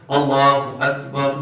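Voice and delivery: slow اللہ اکبر, long 'laaa'; slightly drawn out. Shown as a demonstration. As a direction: recite اللہ اکبر unhurried, like the imam. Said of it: "تھوڑی لمبی کر کے پڑھتا ہے". (امام کی طرح ذرا لمبا کر کے)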